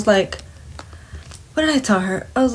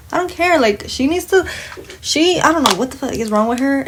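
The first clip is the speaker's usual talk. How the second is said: higher-pitched retold protest; defiant exasperation; 5 semitones higher than usual. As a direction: protest it high, fed up with her. Retold defiant reply to manager.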